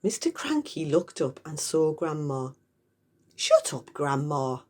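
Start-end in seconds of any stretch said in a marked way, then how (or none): 3.3-4.6 snapping. Acted. Mister Cranky snapping at grandma on the roof. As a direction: cut her off sharply. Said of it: "he said".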